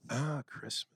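softened jazz DJ aside; radio voice. Pretend. Co-host joining in the date announcement, jazz radio voice. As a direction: muse gently like a late-night radio host. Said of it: "in your radio voice".

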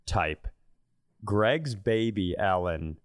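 ordinary delivery

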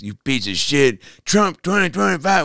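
imitated heckle rising high; mock angry heckler. Heckler confronting the comic after the show, imitated anger. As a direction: climb into a high mock chant.

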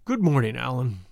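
put-on gloomy, sinking greeting from a sick old man; melancholy. A narrator's reading. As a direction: let it droop with self-pity. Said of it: "he said, in a melancholy voice".

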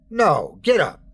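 Jesus rushes to stop him; urgent call. Acted. Jesus stops narrator kneeling.

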